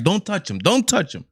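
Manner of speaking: mock-protective monkey mom guarding her baby; a hint of a fretful monkey mother.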